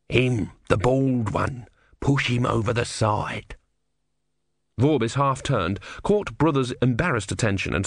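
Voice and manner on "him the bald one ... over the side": urgent tortoise voice. Acted. Tortoise insists.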